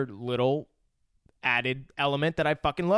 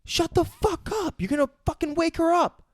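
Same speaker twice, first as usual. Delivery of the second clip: hammed-up boss hushing her; Bill hushing; 13 semitones higher than usual. Friend voicing Bill scolding Ellie, high mock hush. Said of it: "he's like".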